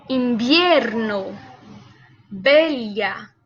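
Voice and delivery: words said slowly with a firm starting b; drill with strong b. Shown as a demonstration. Teacher leading a repeat-after-me drill. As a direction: model each word for the class to repeat. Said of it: "Vamos a pronunciar juntos".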